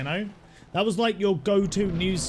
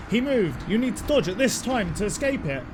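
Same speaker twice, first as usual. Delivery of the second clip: inner voice; 5 semitones higher, 4 dB louder than usual. Retold or imitated. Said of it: "my brain is like".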